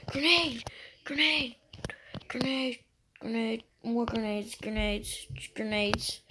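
urgent repeated callout, fading down; grenade warning yell. Real, not acted. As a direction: yell the warning, then ease off. Calling out grenades in combat.

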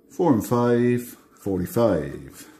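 slow bingo call; bingo caller. Acted. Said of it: "I start doing my bingo calls".

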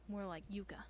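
whispered, unsettling longing; creepy whisper. Acted. Obsessed friend compares her to Yuka, creepy whisper. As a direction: drop to an eerie whisper. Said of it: "Dude, you're creepy".

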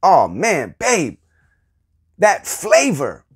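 enthusiastic husband raving over dinner, lightly voiced; lightly excited praise. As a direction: gush about the flavor. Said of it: "if he comes at you like this".

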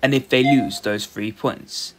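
measured robot-style commentary; robotic voice. Acted. Streamer narrating match to viewers, robotic voice. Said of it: "This robotic voice".

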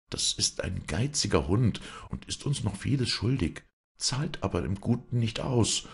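noblewoman voice. Acted. Lady coaxing her servant.

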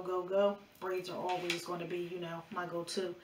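talking around gum; chewing gum. Real, not acted. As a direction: chew gum while speaking. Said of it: "feel ratchet chewing it while I'm talking".

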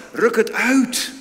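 loud, high and slow; stern command. Acted. Jesus commanding the young man, loud and slow. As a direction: command it sharply.

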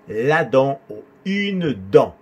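"dent" ending on the vowel, T silent. Shown as a demonstration. Teacher correcting learners' French, "dent" with silent T. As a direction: leave the T off "dent", nasal vowel last. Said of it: "La T no se pronuncia".

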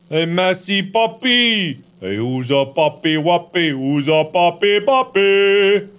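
put-on sing-song puppy-wuppy baby voice; baby talk. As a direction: coo at the puppet like a pet.

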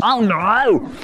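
loud, high alarmed shout; loud alarmed cry. Acted. Dad turns furious.

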